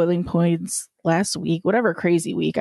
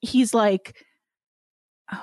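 ordinary talk

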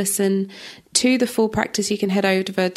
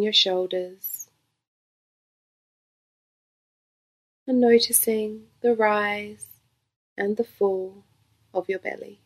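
guided meditation. Real, not acted. Yoga teacher leading listeners through breath awareness, calm guided meditation. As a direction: gently guide them into stillness, phrase by phrase.

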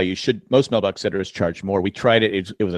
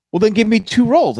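higher, louder lady insisting on two rolls; retold customer, raised and louder; mock customer; 11 semitones higher, 7 dB louder than usual. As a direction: play the oblivious customer, pitched up. Customer repeats her request.

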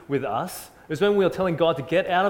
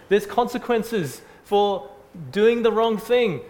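put-on higher, louder, fast childish inner voice; six-year-old's thoughts; 7 semitones higher, 4 dB louder than usual. Six-year-old thinking about the teacher's question, higher and hammed-up. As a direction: play the exasperated little kid in your head. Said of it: "I was like".

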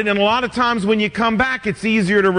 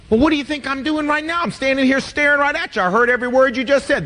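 fast, higher, defensive spouse; couple bickering; 4 semitones higher, faster than usual. Retold or imitated. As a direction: snap back quickly, hurt and defensive. Spouse answers in acted argument.

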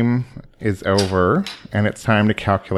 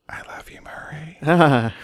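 whispered sweet nothings; 4 semitones higher, slower than usual. Retold or imitated. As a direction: whisper it lovingly into his ear. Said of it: "I just whispered sweet nothings".

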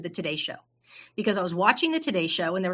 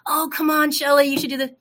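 higher, louder pleading; coaxing friend; 6 semitones higher, 6 dB louder than usual. Retold or imitated. Friend persuading Shelley to audition, coaxing. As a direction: imitate a friend egging you on. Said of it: "I said".

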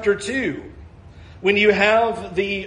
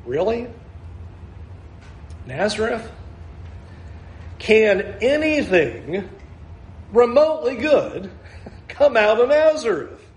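incredulous scoff. Retold or imitated. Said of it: "his response is".

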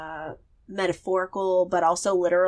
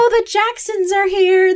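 cheery host greeting; 11 semitones higher, 5 dB louder than usual. Pretend. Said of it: "it's like".

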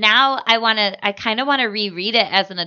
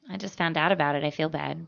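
ordinary talk

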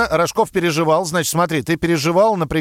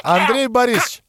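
glitchy robotic call; 4 semitones higher than usual. Acted. Bad phone connection gag.

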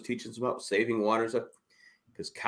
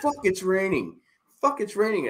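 higher, whiny mock complaint; complaining mom; 10 semitones higher, 3 dB louder than usual. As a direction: mimic mom's repeated grumble. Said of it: "my mom was complaining".

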